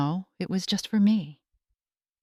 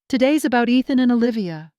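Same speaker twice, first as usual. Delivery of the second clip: firm; 4 semitones higher, 3 dB louder than usual. Acted. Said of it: "I said firmly".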